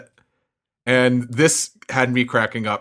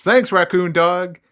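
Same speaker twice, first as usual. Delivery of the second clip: high, drawn-out mock yell; slow, raised-pitch cheer; yelling from crowd; 7 semitones higher, 4 dB louder, slower than usual. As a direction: call out thanks across a crowd. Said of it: "someone yells".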